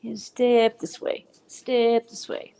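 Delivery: slow, showy come-up call; announcer voice. Acted. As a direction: invite them up like a host. Host calls singer up.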